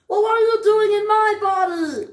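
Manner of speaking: high, loud, fast comeback; indignant retort. Acted. Duck snaps back at the elephant, indignant. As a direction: fire the question right back.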